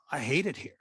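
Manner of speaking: breathy unvoiced whisper. Complaining to the coaches about the campus, whispered. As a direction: hiss it under your breath.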